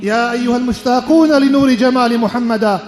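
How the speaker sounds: slow, sonorous khutbah intoning; liturgical recitation. Real, not acted. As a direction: intone it slowly, stretching the long vowels like a chant. Formal Arabic opening and prayers of khutbah.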